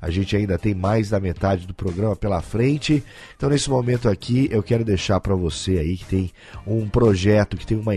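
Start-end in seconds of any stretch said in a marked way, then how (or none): 0.0-3.0 hoarse late-night announcer voice; garganta inflamada. Real, not acted. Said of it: "essa voz aqui de locutor da madrugada". (voz rouca de garganta inflamada)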